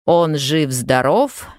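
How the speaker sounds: boy mimicking a solemn Soviet radio announcement; radio announcer. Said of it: "подбежал к зеркалу и начал". (мальчик у зеркала изображает диктора радио)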